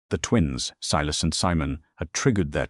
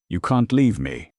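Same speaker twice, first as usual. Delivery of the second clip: high, loud desperate shout; 5 semitones higher, 5 dB louder than usual. A narrator's reading. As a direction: yell after them in panic. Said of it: "Silas shouted".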